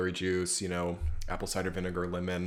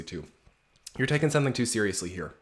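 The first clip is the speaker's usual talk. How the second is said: normal talking voice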